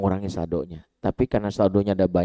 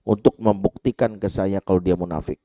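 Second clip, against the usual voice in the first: mildly angry retold rebuke, pitched up at first; angry challenge; 4 dB louder than usual. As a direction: challenge him with restrained outrage. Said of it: "Nabi marah, Nabi bilang gini". (menegur dengan sedikit marah)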